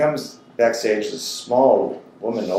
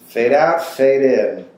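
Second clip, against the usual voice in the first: movie fade cue; 3 semitones higher, 5 dB louder, slower than usual. Acted. Storyteller mimics film transition.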